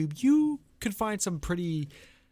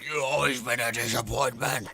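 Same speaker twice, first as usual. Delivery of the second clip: decrepit mom; 4 semitones lower than usual. Retold or imitated. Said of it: "the mom was like".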